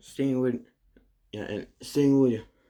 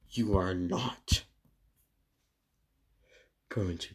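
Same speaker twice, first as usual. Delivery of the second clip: angry. Acted. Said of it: "just get ang-, very angry".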